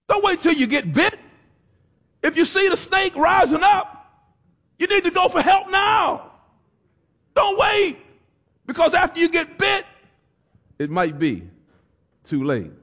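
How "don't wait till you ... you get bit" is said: higher, pressing preacher's warning; full-force preaching. Acted. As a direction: drive the warning home from the pulpit. Preacher urging to seek help.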